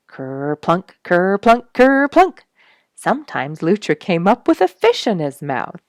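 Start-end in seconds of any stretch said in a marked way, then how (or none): 0.1-2.4 each ker-plunk louder and higher; building splashes. A narrator's reading. Reading to children, splashes building to loud high. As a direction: climb to a big splashy finish. Otters splash one after another.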